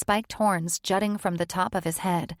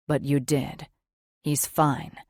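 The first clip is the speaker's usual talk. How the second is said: soothing; 4 semitones lower than usual. Acted. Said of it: "his voice dropping to a soothing whisper".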